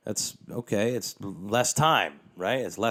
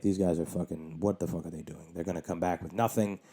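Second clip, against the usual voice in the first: inner grumbling; 3 semitones lower, 5 dB quieter than usual. Retold or imitated. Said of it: "In my head".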